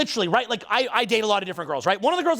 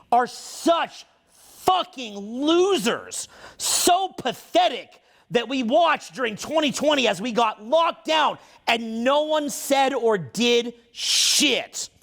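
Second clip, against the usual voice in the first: angry rant; slower than usual. Real, not acted. Ranting about locked-down men.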